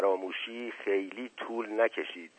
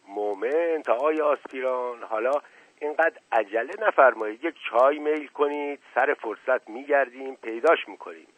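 a light smile in the voice, unhurried; smiling. Acted. The prince soothes the eager assistant, mildly smiling. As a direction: coax him along with a gentle smile. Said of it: "با تبسم گفت".

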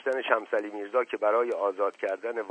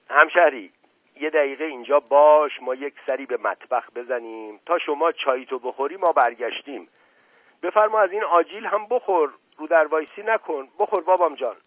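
higher, louder coaxing host; hospitable Mashqasem; 6 semitones higher, 6 dB louder than usual. A narrator's reading. Mashqasem leaves his guest with tea and nuts, hospitable, higher voice. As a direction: coax the guest to help himself.

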